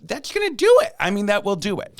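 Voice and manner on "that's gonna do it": high, loud punch; emphatic. Real, not acted. Host to co-host on smoking, loud emphatic pitch. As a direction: land it hard and high.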